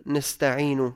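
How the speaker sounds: نستعين said "nasta'inu", with the last nun voweled; final vowel shown. Shown as a demonstration. Teacher introducing an example, نستعين said with its final vowel sounded. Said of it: "بفتح النون الثانية أو بكسرها".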